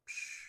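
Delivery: soft breathy "psh" sound effect; mind-blown noise. Shown as a demonstration. Retreat guest shows how their mind is blown, soft "psh". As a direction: quietly puff out a tiny explosion.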